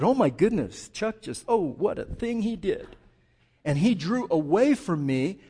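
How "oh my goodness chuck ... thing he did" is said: loud, appalled, nose-held exclamation; disgusted God. Acted. Preacher mocking a God repelled by sin, loud disgust. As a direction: recoil in exaggerated disgust. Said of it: "God holds his nose and said".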